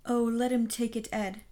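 loud, emphatic plea; wife crying out. A narrator's reading. Wife urging her husband to hand it over, crying out. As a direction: cry it out to husband. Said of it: "cried the wife".

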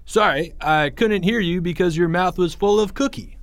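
mock-loud taunting boy; loudly. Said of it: "said Greg loudly".

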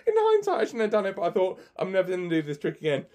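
laughing. Real, not acted. Laughs admitting his bad decision.

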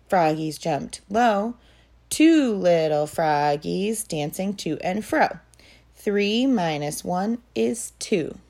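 rhythmic sing-song poem reading; poem recitation. Acted. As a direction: recite it evenly for little kids.

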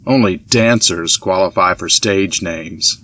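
husband teasing his wife, stressing dancers. A narrator's reading. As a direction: lean on dancers, slow and deliberate. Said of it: "His emphasis on the word dancers".

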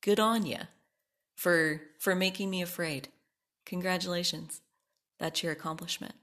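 light mock Australian accent; a hint of Australian accent, wry; understated Australian accent, sarcastic congratulations; Hannah Gadsby. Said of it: "in her Australian accent".

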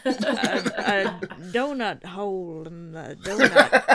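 Daniel Craig. Acted. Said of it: "Is that your Daniel Craig?".

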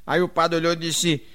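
ordinary delivery

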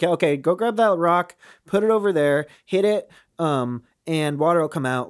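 casual tech-support instructions; matter of fact. Retold or imitated. God doing IT for Moses, matter of fact. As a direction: give the steps as routine. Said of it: "he's just very matter of fact".

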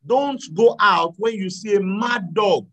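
put-on shouting a warning at a child; mother's warning shout. Mother warning her son with a shout. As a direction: call out like a worried mother.

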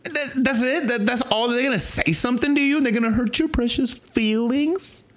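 high, scoffing "that's it?" in disbelief; incredulous mockery. Preacher mocks believers afraid of insults, incredulous and high. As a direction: ridicule the critics' fear as petty. Mocking critics who fear being called bigots.

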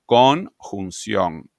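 "Conjunción" very slow, split as Con - junción; "Conjunción" broken apart. Shown as a demonstration. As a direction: draw out "Conjunción" in separate parts to show how it is built. Separa la palabra para explicarla. ("Conjunción" muy lenta, separada en partes)

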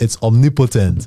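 omnipotent said "ahm-nee-POH-tent", open first vowel, full clear syllables; "omnipotent" the Nigerian way, with a pure "o" and a crisp final "t"; Nigerian pronunciation. Shown as a demonstration. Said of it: "That's, that's a Nigerian accent".

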